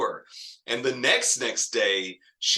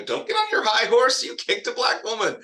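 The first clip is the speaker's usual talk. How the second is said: high, louder righteous anger; righteously angry; 11 semitones higher, 3 dB louder than usual. Shown as a demonstration. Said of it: "a black woman who is righteously angry".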